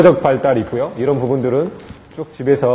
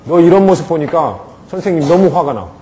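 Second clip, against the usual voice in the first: clear firm; 2 semitones higher, 4 dB louder than usual. Shown as a demonstration. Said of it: "분명하게 의사를 표현하세요".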